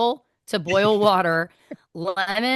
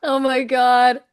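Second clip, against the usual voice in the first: louder, higher burst of delight; real delight at the image; delighted exclamation; 5 semitones higher, 4 dB louder, slower than usual. Real, not acted. Delighted reaction to the joke.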